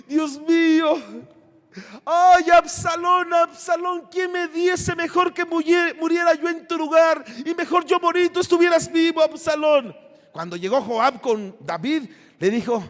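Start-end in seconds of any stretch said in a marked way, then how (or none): 0.1-10.0 higher, tearful wailing over a lost son; retold weeping lament. David mourning his son Absalón, tearful lament. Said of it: "David estaba llorando".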